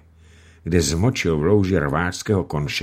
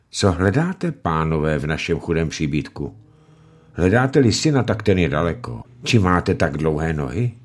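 cheerful. Acted. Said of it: "veselým hlasem".

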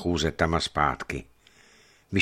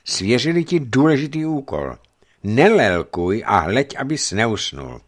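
put-on a strict old captain giving orders; stern; 4 semitones higher, 5 dB louder than usual. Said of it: "řekl přísně".

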